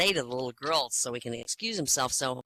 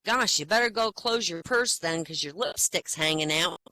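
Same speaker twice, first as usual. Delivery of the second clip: put-on little girl voice; 2 semitones higher, 4 dB louder than usual. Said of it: "the little girl goes".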